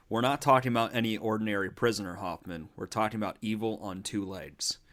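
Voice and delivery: Loomis quote. Retold or imitated. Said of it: "Doctor Loomis here".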